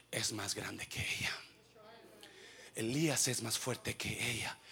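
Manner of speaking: whispered aside; hushed. Acted. Pastor whispering about Elijah to congregation, hushed. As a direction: drop to a whisper.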